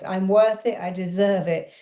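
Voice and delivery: firm, slightly lifted affirmation. Shown as a demonstration. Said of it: "Say it with more power in your voice".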